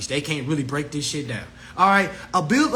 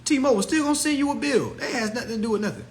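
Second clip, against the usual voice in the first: laughing; 7 semitones higher, faster than usual. Real, not acted. Laughing at own joke.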